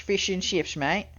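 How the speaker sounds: mock British pub-goer, "mate" tipped up at the end; lightly hammed-up British bloke; British accent. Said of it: "You know, like that".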